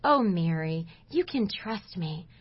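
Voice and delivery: softly voiced, soothing Lord; tender reassurance. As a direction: reassure gently and quietly, as if quoting God. The Lord reassures Mary, retold.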